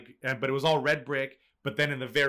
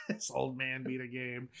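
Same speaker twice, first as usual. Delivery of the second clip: laughing repeat; 5 dB quieter than usual. Real, not acted. Repeating friend's quote, laughing.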